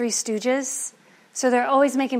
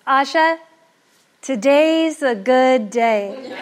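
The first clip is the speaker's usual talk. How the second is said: slow, delighted, laughing through it; gleeful laugh; 2 semitones higher, 4 dB louder, slower than usual. Acted. Husband delighted that the money is safe, slow laughing glee. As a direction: savor the news and laugh. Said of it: "with a big smile on his face".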